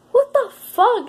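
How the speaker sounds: the voice jumps up in disbelief; shocked disbelief. Real, not acted. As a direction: blurt it out in shock. Shocked reaction to carved arm.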